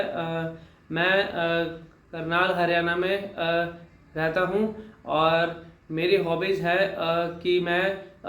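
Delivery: stop-start delivery padded with filler "uh"; hesitant demo, broken up by pauses; halting, frequent pauses. Shown as a demonstration. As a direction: speak haltingly, pausing on a low "uh" between phrases. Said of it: "रुक रुक के पॉजेज लेके बोलूँगा".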